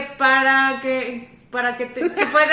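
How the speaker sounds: words breaking into giggles; stifled giggles. Real, not acted. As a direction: fight back a laugh mid-word. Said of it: "no te rías".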